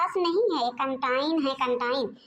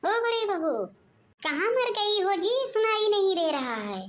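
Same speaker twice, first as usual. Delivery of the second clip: impatient, raised-pitch call through the house; noisy calling out; 4 semitones higher than usual. Acted. Mother-in-law summons her daughter-in-law, noisy impatient calling. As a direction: summon someone from another room. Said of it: "क्यों इतना शोर मचा रही हो".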